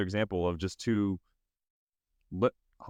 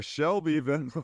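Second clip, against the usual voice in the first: mock rock singer; 4 semitones higher than usual. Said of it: "They told us they knew how to rock in".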